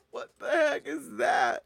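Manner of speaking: high, crying with laughter; laughing. Real, not acted. Host breaks up at a photo, laughing through the words. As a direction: squeal it through tears of laughter.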